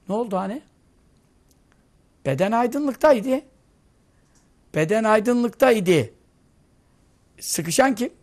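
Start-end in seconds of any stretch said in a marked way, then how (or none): 2.3-6.1 slow emphasis. Acted. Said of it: "repeated for emphasis".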